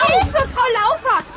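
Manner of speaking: whining for help. Acted. Marita whines to the teacher.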